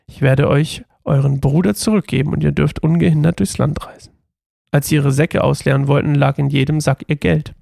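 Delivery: steady, even Bible reading voice; story narration. Acted. Reading the Joseph story aloud to her viewers, even narration. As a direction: read the scripture story aloud evenly.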